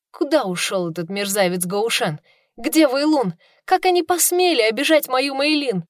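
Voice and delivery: громко и высоко, в негодовании; вспылить, защищая служанку; возмущённо. Acted. Героиня возмущена обидчиками. (героиня возмущается обидчиками служанки, гневно)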